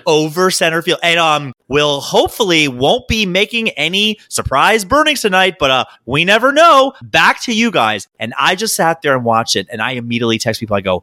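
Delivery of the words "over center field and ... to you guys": perky field reporter. Retold or imitated. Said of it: "She's like".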